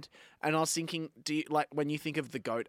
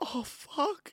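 mock sobbing, high, crying, distraught, despairing voice; 8 semitones higher than usual. Describing a video of a man at a computer, imitating a man crying. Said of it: "he's at a computer and he's crying and he's like".

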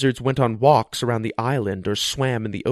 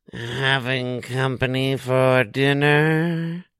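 very slow, raspy voice, "dinner" stretched. Reading a story aloud, voicing a character asking neighbors: slow, raspy voice. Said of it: "she asked them in her slow, raspy voice".

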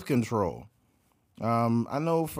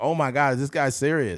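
normal talking voice

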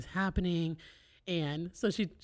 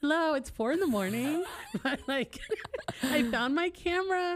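mock upbeat, positive, cheery voice, much higher pitch; 9 semitones higher than usual. Retelling a woman's 4 a.m. voice message, in a mock upbeat positive voice. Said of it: "She's like all positive".

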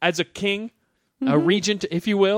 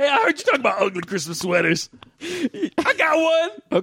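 high, swooping, sing-song cartoon voice; 7 semitones higher than usual. Donkey comes in and greets everyone: Donkey character voice. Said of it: "it's me, Donkey".

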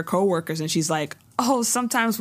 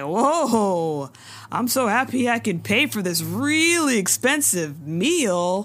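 mock sulky, complaining tone; 3 semitones higher than usual. Retelling how a character grudgingly pays a bill: imitating a sulky complaint. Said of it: "he's acting all bitch-assness about it".

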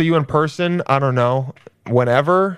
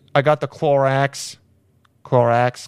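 bad, fake Boston accent, slower; 2 semitones lower than usual. Trying out a voice on the word Clorox, in a bad Boston accent. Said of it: "Kind of like Boston".

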